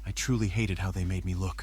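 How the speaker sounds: scarred. Acted. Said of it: "Somebody sounds scarred".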